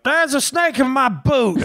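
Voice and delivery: high, slow hammy cowboy; squeaky cartoon cowboy line; cowboy NPC voice. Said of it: "someone will go like".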